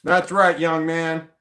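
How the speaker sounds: mild mock stern. Owner praising the returned dog, light mock-stern. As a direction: settle into a satisfied parental tone. Dog came, milder scold.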